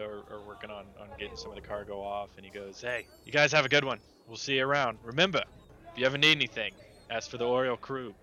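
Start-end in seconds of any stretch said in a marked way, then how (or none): 2.8-8.1 loud, higher, hearty farewell; hearty crewman Clyde. Acted. Crewman waving off the party, hearty call. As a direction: call it across the dock. Clyde says goodbye from the dock.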